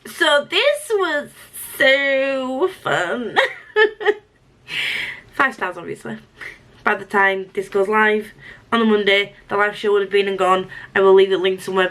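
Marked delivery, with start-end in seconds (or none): 0.1-6.2 high, strained voice breaking into laughter; tearful mock cheer. Real, not acted. Reader praising a book that made her cry, tearful mock cheer. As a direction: squeak out praise slowly as if near tears.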